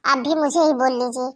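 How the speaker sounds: loud, bitter shouting back at the family; angry outburst. Acted. Daughter-in-law shouting at her mother-in-law, angry and loud. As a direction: throw it back at them, hurt and furious.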